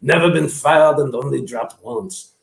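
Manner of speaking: lightly put-on character voice; generic person. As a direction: play a joking rifle seller, slowing into the punchline. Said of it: "I do generic people".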